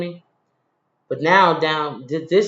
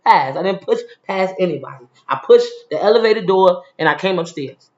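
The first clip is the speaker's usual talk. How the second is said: a little loud; 2 semitones higher, 4 dB louder than usual. Retold or imitated. Defending herself loudly to the guard who accused her. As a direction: push back hard to get his attention. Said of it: "I'm a little loud because I'm trying to gain your attention".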